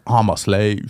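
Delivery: imitating Black American voice; a touch of Black English; Black voice impression. Shown as a demonstration. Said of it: "it's like a black voice".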